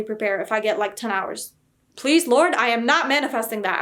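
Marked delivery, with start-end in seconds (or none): 2.0-3.8 raised, louder mock-desperate pleading; dramatic plea. Real, not acted. Vlogger begging not to get a ten-hour timer, dramatic plea. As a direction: beg loudly, emphatic on the refusal.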